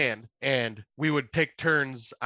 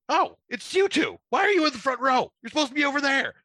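imitating host; 13 semitones higher, 4 dB louder than usual. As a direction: tease the lost volunteers. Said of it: "He's going".

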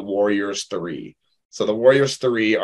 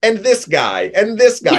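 put-on New Zealand accent, rising higher and louder on the second guy; Korg impression; 10 semitones higher, 4 dB louder than usual. New Zealand Korg introducing the fallen warriors, mock accent. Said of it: "that was a very great impression".

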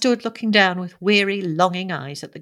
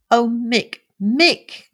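higher, louder call of his name; emotional cry; 5 semitones higher, 4 dB louder, much slower than usual. A narrator's reading. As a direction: cry out to someone long missed. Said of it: "she cried".

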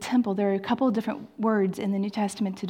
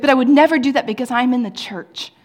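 prim self-restraint; 3 semitones higher, 9 dB louder, faster than usual. Retold or imitated. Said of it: "And she's like".

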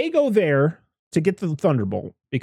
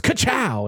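mock ka-chow; 8 semitones higher than usual. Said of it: "a Cars reference".

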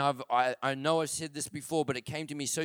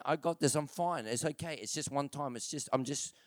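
mock excuse-maker; 3 semitones lower, 7 dB quieter than usual. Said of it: "someone saying".

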